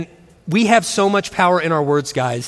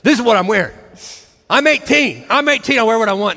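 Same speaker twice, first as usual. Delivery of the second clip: put-on whiny defiant teen; 4 semitones higher than usual. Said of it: "he started saying".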